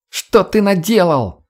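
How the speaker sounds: high, drawn-out cry of dismay; upset cry. A narrator's reading. Redhead to the boy after the escape, upset cry. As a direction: cry out in reproach, pitched high and slow. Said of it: "кричала рыжеволосая".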